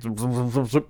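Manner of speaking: quick repeated zoom noises; imitated zooming. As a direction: rattle off zooms like a sound effect. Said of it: "I distinctly remember going like".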